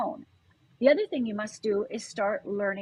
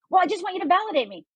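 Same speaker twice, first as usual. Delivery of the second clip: mock whiny friend; 8 semitones higher, 4 dB louder, faster than usual. Friend voiced in a story.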